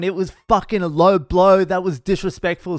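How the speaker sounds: high, indignant mock yell; retold yelling. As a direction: imitate an outraged punter scolding a comic. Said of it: "is yelling at Miles Milson".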